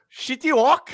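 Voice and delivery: high-pitched cartoon character impression; City Walk guy. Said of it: "the City Walk guy from South Park".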